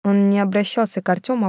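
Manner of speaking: usual speaking voice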